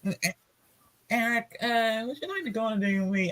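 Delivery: soft, fast nervous question; nervous date ask. Acted. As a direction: blurt the date request quietly. Voicing someone asking date.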